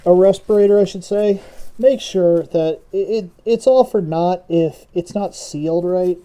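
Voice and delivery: talking through a respirator mask; muffled voice behind a mask. Real, not acted. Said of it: "I don't know if you guys can hear me that well".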